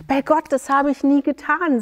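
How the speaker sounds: a hint of despair as he swears; desperate plea. Sayan denying the theft to the judge, mildly desperate. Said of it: "sagte Sayan verzweifelt".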